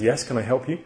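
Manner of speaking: put-on security guard in an American accent; a mild imitated American accent. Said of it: "in an American accent".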